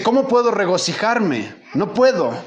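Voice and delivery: high, pleading cry of a man who has lost everything; anguished dying father. Retold or imitated. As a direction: plead like a broken old man facing death. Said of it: "y dice".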